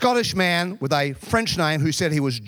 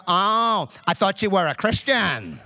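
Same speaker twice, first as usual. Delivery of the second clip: mocking accuser; slower than usual. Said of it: "Multiple times I had people go".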